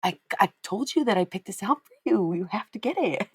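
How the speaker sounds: high, stretched-out mock kid insistence; insistent kid. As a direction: mimic a child who won't take no, dragging the words. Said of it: "And she goes".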